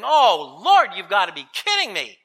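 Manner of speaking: loud, disbelieving objection; incredulous protest. Acted. Reluctant believer answers God's call, in loud disbelief. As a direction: balk at an impossible request.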